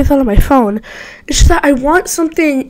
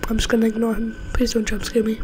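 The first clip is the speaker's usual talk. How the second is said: softer tense murmur; nervous mutter; 3 semitones lower, 13 dB quieter, faster than usual. Real, not acted. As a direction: hold still and hope. Tense hiding from Phantom Freddy.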